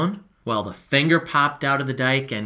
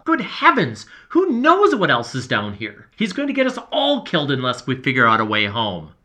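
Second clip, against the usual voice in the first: panicked fear; 4 dB louder than usual. Acted. Panicked quarrel.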